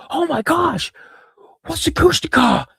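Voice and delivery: very high-pitched, hammed-up astonishment; mock amazement. Teenager reacts to dad's monster story, mock amazement. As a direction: squeal it in mock disbelief.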